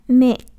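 "meet" with the ee held long; long vowel. Shown as a demonstration. Teacher correcting the short reading, long-vowel "meet". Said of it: "Đó, đọc dài đó".

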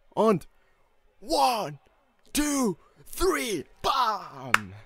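high excited drawn-out yells; wrestling commentator. Real, not acted. Live reaction, counting pin.

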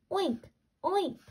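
high squealy piglet oink. Acted. Reading Gilbert the pig's high oink. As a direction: oink like a little pig. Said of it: "said Gilbert".

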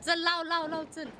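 calling out to light the firecracker, excited; excited urging. Real, not acted. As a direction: push them to light it now.

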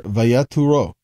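Vayaturo said in Hebrew, va-ya-TU-ro; Hebrew word. Shown as a demonstration. Teacher reading Vayaturo aloud to the class, in Hebrew. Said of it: "In the Hebrew".

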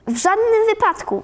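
high-pitched, emphatic teacher's ruling; firm refusal. A narrator's reading. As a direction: shut the idea down firmly. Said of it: "wyrzuciła z siebie stanowczo". (stanowcza, wysoka odmowa)

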